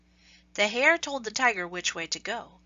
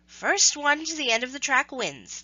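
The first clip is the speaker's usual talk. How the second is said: tortoise's challenge; 6 semitones higher, 4 dB louder than usual. Acted. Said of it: "the tortoise said".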